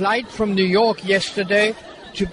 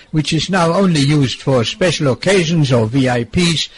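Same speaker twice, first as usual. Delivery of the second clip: measured, lower-pitched scripted read; radio report narration; 8 semitones lower than usual. Acted. Presenter telling listeners about the airport arrivals, scripted report narration.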